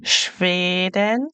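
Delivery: Sweden as Shvayden, slowly; German Schweden. Shown as a demonstration. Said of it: "the E sounds like a A".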